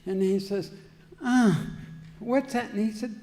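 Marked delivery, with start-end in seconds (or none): 1.2-2.7 startled question. Retold or imitated. Newcomer alarmed hearing chains.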